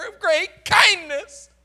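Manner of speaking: Jonah's bitter complaint, swelling to a loud crying outburst; frustrated prayer. Acted. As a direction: accuse God through clenched frustration. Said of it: "Listen to the frustration of his prayer".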